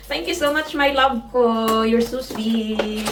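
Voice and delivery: slow, drawn-out loving thanks; sweet thanks. Real, not acted. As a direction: stretch it like talking to him. Thanking husband on camera. (mabagal at malambing na pasasalamat)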